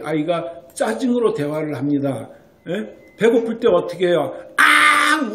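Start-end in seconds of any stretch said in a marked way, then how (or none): 4.6-5.3 put-on a sudden, much higher, loud wailing baby cry; imitated baby cry. Lecturer acting out a hungry baby crying, high loud wail. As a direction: mimic a hungry infant's bawl. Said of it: "울어버려요".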